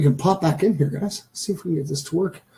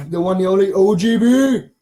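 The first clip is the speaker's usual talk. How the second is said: announcer hype; 3 semitones higher, 7 dB louder than usual. Acted. Hyping a donor like an announcer.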